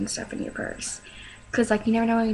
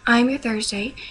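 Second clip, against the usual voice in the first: perkier, more projected restart; speaking up; 4 dB louder than usual. Real, not acted. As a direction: livelier self-introduction. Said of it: "Sorry, I'm talking really s".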